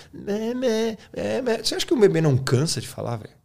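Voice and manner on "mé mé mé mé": put-on high-pitched baby babble; babbling baby. Teacher imitating a baby learning to talk, high babbling voice. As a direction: imitate an infant struggling to get syllables out. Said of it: "Olha o, olha o bebê".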